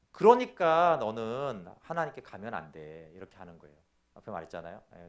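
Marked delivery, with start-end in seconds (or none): 0.1-3.1 Satan's condemnation. Acted. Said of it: "사단의 정죄는".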